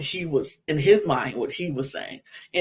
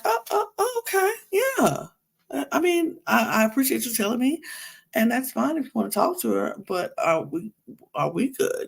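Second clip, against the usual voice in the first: much higher, quick nervous reassurance-seeking; high and hurried, anxious to hear we're good; flustered Janae; 7 semitones higher, faster than usual. Retold or imitated. Janae asks Connor if they are still good, high and hurried. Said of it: "She was just like".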